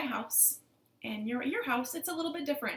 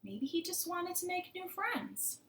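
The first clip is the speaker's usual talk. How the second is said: higher-pitched, thoughtful beetle; pondering beetle with a raised voice; wise old beetle; 8 semitones higher than usual. Acted. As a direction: muse gently as the old beetle. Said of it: "And the beetle said".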